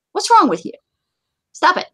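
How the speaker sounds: high-pitched, exasperated reproach; indignant scolding. Real, not acted. Host scolding people who post threats, indignant and high. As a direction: tell them off, pitch jumping up.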